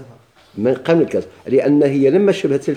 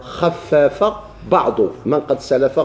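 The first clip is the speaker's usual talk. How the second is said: slow recitation; much slower than usual. Shown as a demonstration. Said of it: "شنو شكون التقدير".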